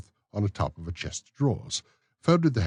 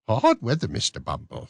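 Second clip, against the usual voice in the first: high, prim lady's voice; genteel matron; 5 semitones higher, 5 dB louder than usual. Acted. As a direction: play the coy matron. Matron's voice in dialogue.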